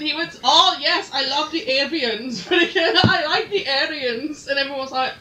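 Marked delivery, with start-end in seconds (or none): 0.4-4.5 lightly put-on German accent, laughing; comic German accent; mock German accent. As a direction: imitate a German speaker through giggles. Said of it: "It was his German accent".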